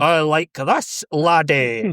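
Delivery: slow, hammed-up Scottish accent; overloaded Scottish accent. Shown as a demonstration. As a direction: overdo the Scottish, drawing it out like an American actor attempting it. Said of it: "they really overload it and just kinda keep going".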